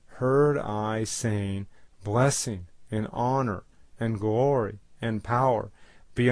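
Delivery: deliberate, emphatic verse reading; solemn Bible recitation, weighting each phrase; scripture reading. Acted. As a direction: read it out in measured phrases. Reads scripture aloud.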